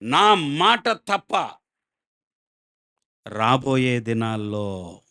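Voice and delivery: slow, weighty proclamation, each word set down deliberately; solemn prophet's oath. Retold or imitated. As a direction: declare it slowly like a prophet pronouncing judgement. Elijah's oath to the king retold.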